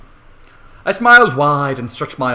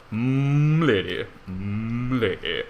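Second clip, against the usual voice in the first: mock m'lady; 2 semitones lower, 5 dB quieter, much slower than usual. Fedora tippers warning the herd, soft mumbled m'lady. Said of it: "they began to belt".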